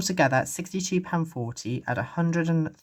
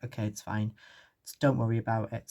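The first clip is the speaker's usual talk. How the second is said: self-soothing; 3 semitones lower, 4 dB quieter than usual. Retold or imitated. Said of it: "sort of vibes".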